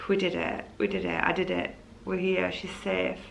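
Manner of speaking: relieved murmur. Retold or imitated. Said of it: "I was just like".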